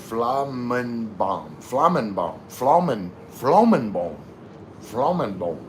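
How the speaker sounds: trying out a German accent. Shown as a demonstration. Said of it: "trying to get the German accent going there".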